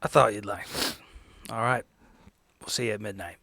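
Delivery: normal talking voice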